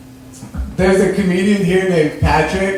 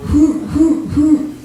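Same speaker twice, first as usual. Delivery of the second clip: high mock hoots, much higher than his voice; owl hooting; 9 semitones higher, much slower than usual. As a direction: hoot it like an owl, pitched way up. Imitating owl call.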